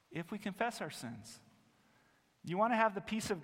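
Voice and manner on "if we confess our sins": "if we confess our sins" said softly, stress moved to "confess"; softer repeat. Shown as a demonstration. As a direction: drop the volume and lean on "confess". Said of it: "if, that's the condition".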